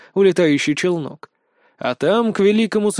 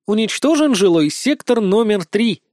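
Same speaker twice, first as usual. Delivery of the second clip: cheerful announcement; 5 semitones higher than usual. Acted. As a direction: read it like a chirpy automated PA. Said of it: "радостно сообщил женский голос издалека". (бодрый голос корабельного оповещения)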